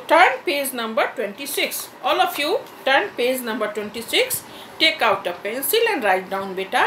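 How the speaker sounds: slow, drawn-out teacher directions; classroom instruction. Acted. Teacher slowly giving the whole class directions.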